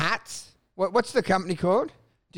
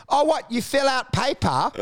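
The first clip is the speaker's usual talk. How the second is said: mock amazement; 4 semitones higher than usual. Mocking the broker's job, mock amazement. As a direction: gush in fake wonder. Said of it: "I'm like".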